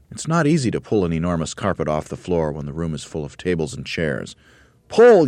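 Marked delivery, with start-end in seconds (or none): 4.9-5.3 very high, loud yell; Mugglewump yelling. A narrator's reading. Monkey leader at the carpet, yelling. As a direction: yell the command full out. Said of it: "yelled Mugglewump".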